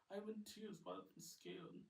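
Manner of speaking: lightly voiced tearful, scared kid; a hint of a wobble of fear; Ollie teary and scared. Kid admitting tears and fear, lightly voiced.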